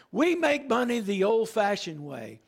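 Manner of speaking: lightly imitated English actor's accent; John Houseman's English accent. Pastor recalling a brokerage commercial, light English accent. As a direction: give the slogan a touch of old English accent. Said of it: "he would say in that English accent".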